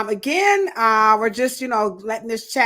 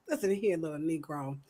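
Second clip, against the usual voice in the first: retold boss; 5 semitones lower, 10 dB quieter than usual. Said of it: "And she was like".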